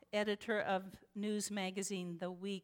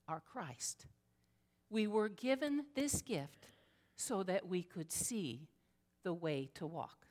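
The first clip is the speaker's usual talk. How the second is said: prayerful invocation; 2 semitones lower than usual. Acted. Pastor opens the sermon with an invocation, reverent.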